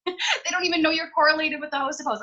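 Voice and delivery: can't hold back a giggle at the revelation; laughing. Real, not acted. Laughing as she tells her team why nobody accepts. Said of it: "I don't know why I'm laughing".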